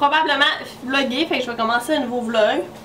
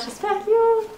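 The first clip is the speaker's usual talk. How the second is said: gushing; 11 semitones higher than usual. Real, not acted. Gushing over a cute purchase.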